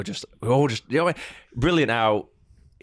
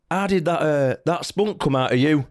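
higher, laughing mock shout; cheeky lad's shout; 6 semitones higher than usual. Young fan shouting at the player's dad, mock shout with a laugh. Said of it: "young lad came up to him and just went".

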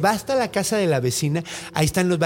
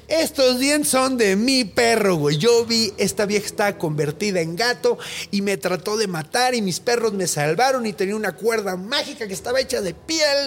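excited accusation; 6 semitones higher than usual. Retold or imitated. Hunter exposes the witch.

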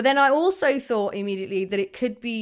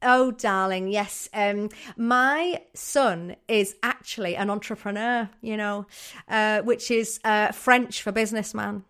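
proud mum. Acted. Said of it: "His mum would really be like".

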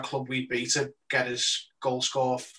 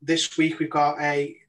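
host it like a TV quiz show; game show host voice. Acted. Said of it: "Weatherman Teddy makes another appearance again".

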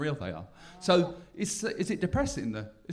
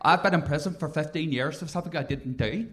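lightly voiced wronged Irish prisoner; a touch of film-drama protest; Daniel Day-Lewis; 4 dB louder than usual. Quoting In the Name of the Father, mock-indignant prisoner. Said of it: "very In the Name of the Father".

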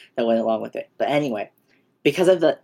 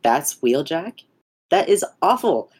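mock outrage; 4 semitones higher, slower than usual. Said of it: "I was just complaining".

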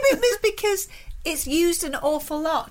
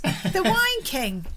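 put-on Northern Irish accent. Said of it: "Now say it in a Northern Irish accent".

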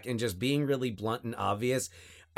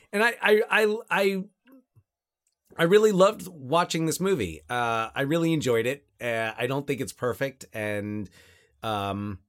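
slightly slurred from a numb lip; talking with a numbed mouth after dental work. Real, not acted. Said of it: "if any of my words sound slurred".

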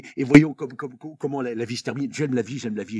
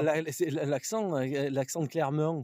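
Clermont accent; 4 semitones higher, slower than usual. Shown as a demonstration. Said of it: "C'est pas un peu comme ça, l'accent de Clermont".

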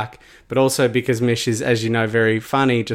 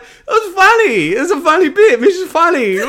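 exasperated; 6 dB louder than usual. Retold or imitated. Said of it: "I'm like".

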